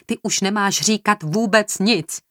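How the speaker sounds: high, drawn-out reprimand; angry. A narrator's reading. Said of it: "zeptala se Marta rozlobeně".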